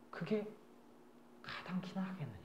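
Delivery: near-whispered rhetorical question as God; hushed rebuke. Retold or imitated. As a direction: drop to a whisper for the reproach. God's rebuke acted in a sermon.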